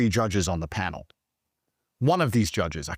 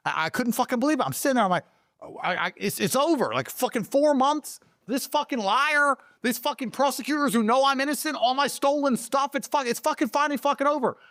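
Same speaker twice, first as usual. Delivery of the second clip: disbelieving joy. Real, not acted. Disbelief at release after jail.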